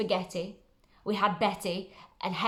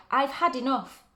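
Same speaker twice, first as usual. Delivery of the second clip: 1 exasperated cry; 4 semitones higher than usual. Acted. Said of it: "he cried".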